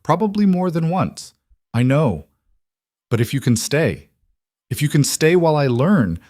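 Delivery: a man close to tears, pushing the words out; holding back tears. Acted. Roman asks his wife for patience, near tears. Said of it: "trying not to cry".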